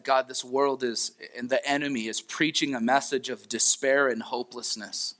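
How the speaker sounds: earnest spoken prayer to God; closing prayer. Acted. Pastor prays over the congregation to close, earnest prayer voice. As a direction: pray gently over the church.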